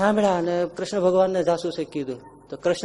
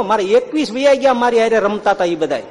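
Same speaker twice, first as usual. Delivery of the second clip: frustrated Duryodhan; 7 semitones higher than usual. Acted. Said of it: "Duryodhan અકળાણો". (અકળાયેલા દુર્યોધનનો અવાજ)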